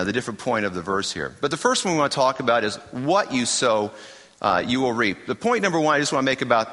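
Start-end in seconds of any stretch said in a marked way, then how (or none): 2.9-3.9 "what" leaned on, ahead of "you sow"; stress on WHAT. Shown as a demonstration. Preacher pointing to the circled word, stress on "what". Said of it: "circle the word "what." We're gonna put the emphasis".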